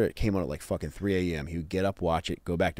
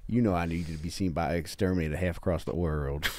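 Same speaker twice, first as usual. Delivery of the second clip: light mock German accent; 2 semitones lower, 3 dB quieter than usual. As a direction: imitate a German sailor in a lightly put-on German accent. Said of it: "That's a good German accent".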